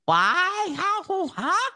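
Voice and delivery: mock confused. Mock confusion, high pitch.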